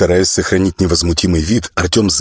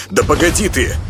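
higher-pitched, irritated protest; exasperated protest; 8 semitones higher than usual. Acted. Artyom to the friend pulling him, exasperated protest. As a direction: stop him dragging you along. Man resisting being dragged along.

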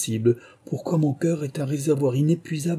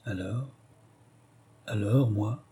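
anguished question; 6 dB quieter, slower than usual. A narrator's reading. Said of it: "avec une angoisse inexprimable".

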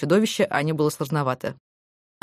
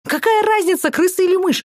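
shrill indignation; 12 semitones higher, 3 dB louder than usual. Acted. Maya shrieks in indignation.

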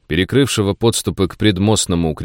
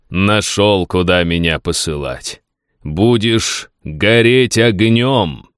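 echoing ethereal energy being; much slower than usual. Acted. Worm threatens Gulyaev in dream.

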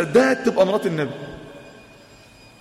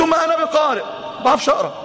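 raised, pleading voice; pleading reply; 5 semitones higher, faster than usual. Acted. The frightened Prophet pleading with the angel. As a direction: answer higher, begging to be understood.

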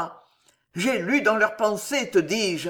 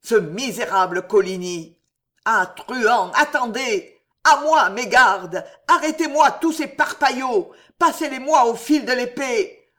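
building to a scream; 2 semitones higher, 6 dB louder than usual. Acted. The raving king calling his guards against assassins, building to screams. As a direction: panic climbing until he howls for help.

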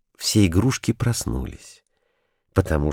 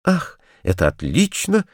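higher, eager exclamation; excited cry; 8 semitones higher than usual. A narrator's reading. Kurilka delighted at the idea of singing, higher. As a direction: jump up with delight. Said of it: "вскричал Курилка".

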